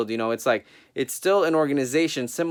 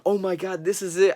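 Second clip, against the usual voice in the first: high, excited gasp of disbelief; freaking out; 7 semitones higher than usual. Retold or imitated. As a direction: squeal it like a fan who can't believe it. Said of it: "I was freaking out".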